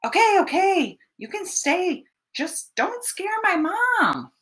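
storyteller gives in to the bear; giving in. Pretend. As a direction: cave in with a sigh of defeat.

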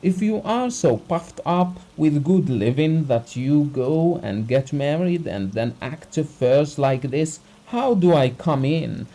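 the doctor's indignant outburst, loud and high; angry tirade. A narrator's reading. Doctor berates Abogin, beard quivering.

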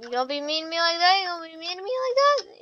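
whiny plea. Acted.

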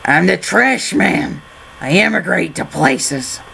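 lightly put-on trash man voice. Traveller states his purpose at the border, mock trash man voice. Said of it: "make a trash man joke".

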